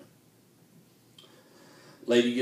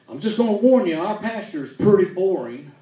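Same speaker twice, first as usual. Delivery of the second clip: mock warning; 6 semitones higher, 6 dB louder than usual. Usher warning in joke.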